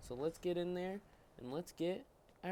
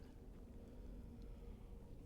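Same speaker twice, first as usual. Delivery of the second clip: yawn; 12 dB quieter than usual. Real, not acted. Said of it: "I am yawning".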